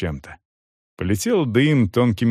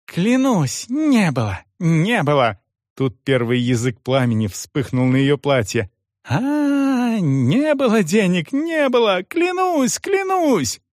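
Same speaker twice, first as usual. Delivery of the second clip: ever higher, frantic swearing; terrified pleading; 8 semitones higher than usual. A narrator's reading. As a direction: swear in terror as flames catch. Woman burning at the stake.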